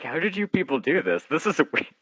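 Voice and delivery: high, marvelling disbelief; amazed. Retold or imitated. Writer addressing the actors, high and amazed. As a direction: gush at the uncanny match.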